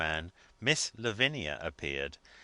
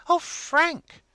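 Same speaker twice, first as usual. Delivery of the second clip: high, loud protesting wife; emphatic remonstrance; 9 dB louder than usual. A narrator's reading. Wife remonstrating with her husband, high and loud. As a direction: cry out his name in protest. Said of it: "remonstrated his emphatic wife".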